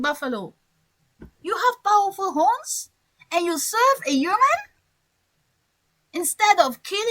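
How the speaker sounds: baffled, rising questions; a hint of a puzzled wolf; surprised wolf. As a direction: sound truly puzzled by the buffalo. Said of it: "the reaction of the wolf is a surprise".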